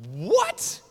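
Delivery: high, startled what; baffled what. Retold or imitated. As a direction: react like it makes no sense. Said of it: "he's like".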